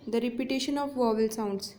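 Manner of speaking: very slow, word by word; slow dictation. Shown as a demonstration. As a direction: dictate the definition slowly. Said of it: "तो असोनेंस देखिए".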